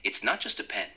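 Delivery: a touch of a pitchman; salesman pitch. Pretend. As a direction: sell the pen like a salesman. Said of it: "try to be a salesman".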